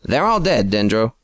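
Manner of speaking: a touch of a shouted reply; mild shout. Acted. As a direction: Phil calling back, understated. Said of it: "Phil shouted in reply".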